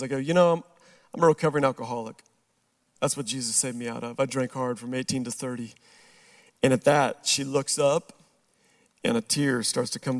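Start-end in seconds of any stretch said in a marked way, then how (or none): 0.2-5.7 lower, softer, candid confession; shifting to sincere. Retold or imitated. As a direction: drop into a sincere admission. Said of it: "switch gears".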